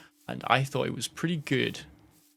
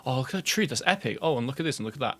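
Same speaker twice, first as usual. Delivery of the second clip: rushed slurred demo; faster than usual. Shown as a demonstration. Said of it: "So if I'm talking like this".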